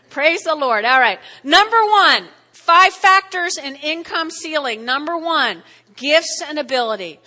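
loud preaching. Acted. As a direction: call out the first point like a rally. Building up to number one.

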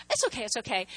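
soft, polite reassurance; quietly smooth it over; being really nice. Retold or imitated. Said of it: "I was being really nice there".

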